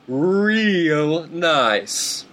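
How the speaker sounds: very slow, drawn-out sarcasm; sarcastic drawl. Shown as a demonstration. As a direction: stretch it out dripping with sarcasm. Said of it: "Whoops. I mean".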